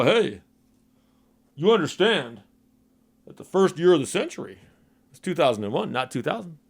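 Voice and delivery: dopey know-it-all voice; dumb guy voice. Retold or imitated. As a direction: play it like a dim know-it-all. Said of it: "That's my dumb guy voice".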